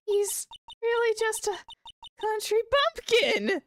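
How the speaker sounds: high, hammed-up wail; disillusioned wail. Maya crushed to learn her idol is a bumpkin, mock-distraught wail.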